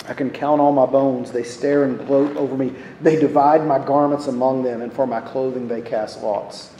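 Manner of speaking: measured, even reading of a psalm; scripture reading. Acted. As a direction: read the verse aloud, steady and unhurried in tune. Reads the psalm aloud.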